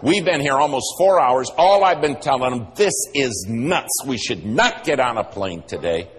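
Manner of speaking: worried wife. Retold or imitated. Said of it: "She jumped in and she said".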